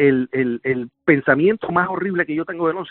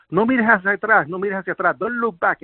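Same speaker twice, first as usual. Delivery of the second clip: mild urgent police yell, pitched up; retold shout; 4 semitones higher than usual. Policeman warns survivor not to look back, mild retold shout. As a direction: imitate a shouted warning without full volume. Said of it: "La policía me grita".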